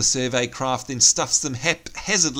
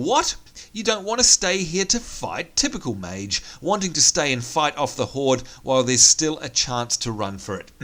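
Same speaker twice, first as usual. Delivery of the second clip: mocking the admiral. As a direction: sneer at the mage like a grumpy gnome. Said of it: "And he's saying".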